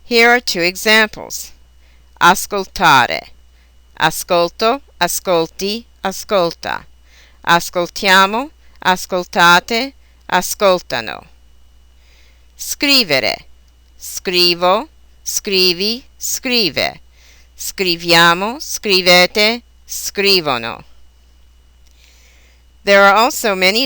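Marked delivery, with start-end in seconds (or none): 2.2-11.3 next-to-last stress, but "ascoltano" as a-SCOL-tano; conjugation stress demo. Shown as a demonstration. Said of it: "follow the general accentuation rule". 12.6-20.8 next-to-last stress, but "scrivono" as SCRI-vono; conjugation stress demo. Shown as a demonstration. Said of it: "third person plural form does not".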